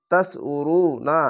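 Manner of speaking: drawn-out chanted reading of তাকুলু, vowels held long; slow Quran recitation. Shown as a demonstration. Teacher demonstrating tajweed to students, slow chanted recitation. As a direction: recite তাকুলু slowly, stretching each vowel. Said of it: "তিন আলিফ টেনে পড়বেন".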